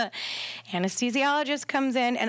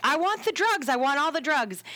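higher-pitched mock plea for drugs; insistent demand; 4 semitones higher than usual. Client in labor to nurses, insistent retold demand. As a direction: imitate a demanding patient.

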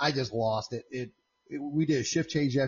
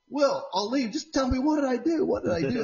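retold pleading; 12 semitones higher than usual. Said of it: "I just kept going".

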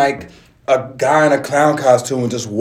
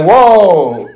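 retold startled cry, higher and louder; 4 semitones higher, 6 dB louder than usual. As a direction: act out being caught off guard. Retold reaction to being sprayed.

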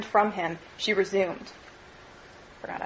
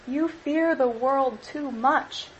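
slow, gentle and higher; 4 semitones higher, much slower than usual. Acted. Girl gently answering Scrooge, slow and higher. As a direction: say it gently, slowly, to soothe him. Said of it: "she answered gently".

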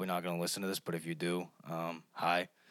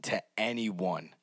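slow, deliberate weight on "anyone"; stress on ANYONE; slower than usual. Real, not acted. Giving advice to the audience, stressing "anyone" slowly. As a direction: stretch out "anyone" so it lands. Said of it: "and I stress this word".

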